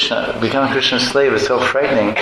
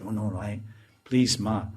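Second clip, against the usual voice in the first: mock humble; 8 dB quieter than usual. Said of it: "very humbly said".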